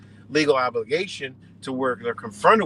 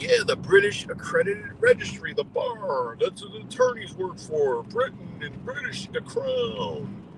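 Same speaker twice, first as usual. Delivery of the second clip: much higher falsetto, mocking and eager; mock truther falsetto. Mocking truthers explaining the British Crown in falsetto. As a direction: squeak the claim like a gullible believer.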